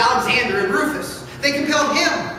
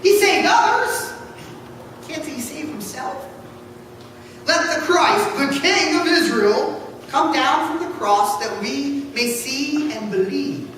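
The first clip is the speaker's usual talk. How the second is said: scornful mockery; 3 semitones higher than usual. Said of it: "mocked him to one another".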